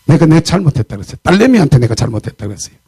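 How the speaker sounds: normal talking voice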